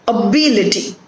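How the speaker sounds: "ability" with BIL stressed; stress on second syllable. Shown as a demonstration. Teacher confirming the stressed syllable, "ability" stressed on BIL. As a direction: lean on BIL in "ability", falling after it. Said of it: "the stress is on B".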